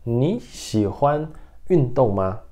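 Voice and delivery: "Ni xihuan yundong ma" slowly, word by word; slow model pronunciation. Shown as a demonstration. Teacher repeating the Mandarin question slowly for students. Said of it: "Então".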